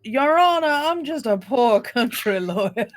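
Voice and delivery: Carolina drawl. Acted. Carolina lawyer pleading to the judge, in a drawn-out Southern accent. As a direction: play the humble Carolina country lawyer, stretching every word. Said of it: "a Carolina accent where you draw out the words".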